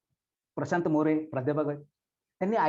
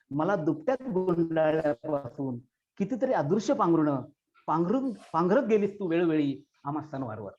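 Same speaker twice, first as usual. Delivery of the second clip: poem recitation. Acted. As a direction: recite as a grieving child's farewell. Recites poem about lost mother.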